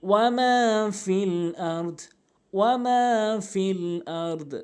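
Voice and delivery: ওয়া মা drawn out one alif; stretched wa ma. Shown as a demonstration. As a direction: lean on মা. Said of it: "এভাবে উচ্চারণ করবেন". (ওয়া মা টেনে)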